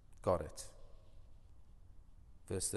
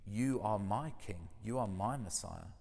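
tender confession. Retold or imitated. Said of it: "Peter says".

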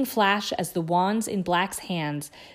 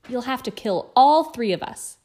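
higher, louder defiance; a loud, higher outburst of defiance; defiant; 5 semitones higher, 6 dB louder than usual. A narrator's reading. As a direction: throw the challenge at him louder. Ron defies Black again.

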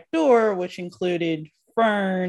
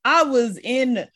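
caught-out Imogen; 3 semitones higher than usual. Retold or imitated. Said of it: "her exact wording was".

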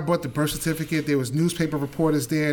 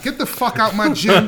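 retold cursing out; 4 semitones higher, 6 dB louder than usual. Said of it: "Curse me out".

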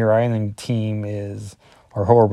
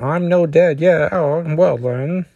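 put-on Scottish accent; 6 semitones higher than usual. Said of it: "I have a horrible Scottish impression".

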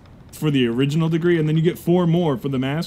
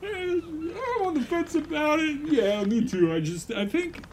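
high, soft crewman; unsure crewmate, much higher and softer; crew member voice; 12 semitones higher, 6 dB quieter than usual. Acted. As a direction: answer as a hesitant sailor. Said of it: "Hey, crew".

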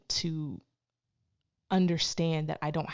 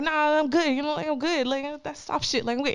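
higher-pitched mock homeboy brush-off; one of the guys; 9 semitones higher, 4 dB louder than usual. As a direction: lightly act the tough bro shrugging off concern. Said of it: "talking to him like I'm a nigga though".

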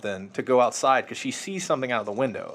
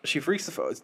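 whispered, self-censoring; 4 semitones higher, 6 dB quieter than usual. Real, not acted. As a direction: drop to a whisper to dodge the swear.

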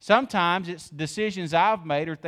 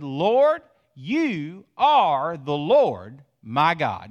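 fervent cry; 5 dB louder, much slower than usual. Acted. Preacher voices the repentant man praying, louder and slow. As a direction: cry out the prayer, then slow right down. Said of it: "He said".

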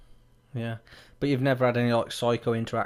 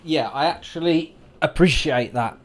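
breathless, catching breath; 3 semitones higher, 5 dB louder than usual. Real, not acted. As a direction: speak while out of breath. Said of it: "Sorry, I'm out of breath there".

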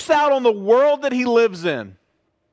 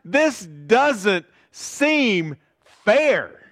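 slow pleading complaint; much slower than usual. Retold or imitated. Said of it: "we look at it and we go".

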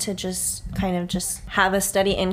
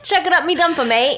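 higher, louder mock Australian accent; Surfer Boy; 8 semitones higher, 5 dB louder than usual. Host quotes the surfer correctly in a mock Australian accent. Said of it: "he said in Australia".

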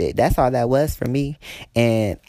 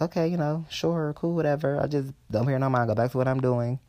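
brushing it off; 5 dB quieter than usual. Retold or imitated. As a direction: shrug it off under your breath. Retold dismissive reaction to irritated customer.

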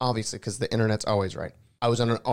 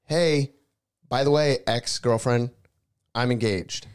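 mock call to ex; 2 semitones higher, 4 dB louder, slower than usual. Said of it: "And I go".

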